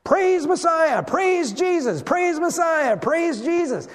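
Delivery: high, loud, chanted cheers; children shouting praise. Pretend. Children parading round the temple, loud high cheering. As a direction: cheer it like a crowd of kids. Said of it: "Can't you imagine children walking around in the temple".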